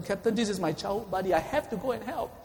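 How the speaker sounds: mildly insistent appeal, rising at the end; urgent plea. Acted. Soldier begs captain to let him rescue his buddy, urgent plea. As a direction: plead as if unable to hold back. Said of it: "couldn't contain himself any longer".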